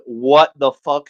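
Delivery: slow, drawn-out mock yell; slow, half-hearted yell; retold yell. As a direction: stretch out each word in mild outrage. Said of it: "I literally yelled".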